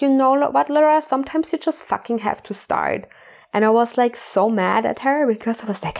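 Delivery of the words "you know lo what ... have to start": retelling mom snapping at her, a touch higher and firmer; a mildly imitated fed-up mother laying down the law; stern mother. Mother, annoyed at her daughter's whining, firm mock scolding. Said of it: "she started to become so strong".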